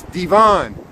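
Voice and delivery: Devon with the second syllable stressed. Shown as a demonstration. Explaining his name to the viewer, stress on -von. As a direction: put the weight on -von in Devon. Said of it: "with the emphasis on the second".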